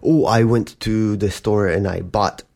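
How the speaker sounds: ordinary talk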